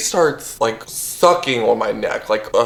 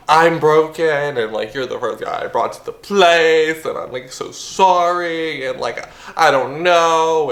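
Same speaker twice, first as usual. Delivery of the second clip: mock crying apology; 4 semitones higher than usual. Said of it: "starts crying".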